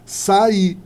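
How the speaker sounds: SAIR split between A and I; syllables separated. Shown as a demonstration. Teacher showing a hiatus, SAIR with vowels separated. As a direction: give each vowel of SAIR its own syllable.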